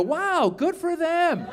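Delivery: high, light coo; mild admiration. Retold or imitated. Watching the news about older people, high detached admiration. Acted reaction to news for others.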